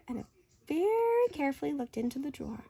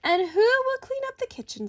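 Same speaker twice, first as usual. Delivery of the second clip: father; 10 semitones higher, 5 dB louder than usual. Acted. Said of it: "said the father".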